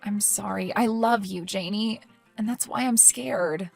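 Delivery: hushed, caring tone; tender concern. Acted. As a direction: gently voice your worry for a sister. Concerned sister softens after quarrel.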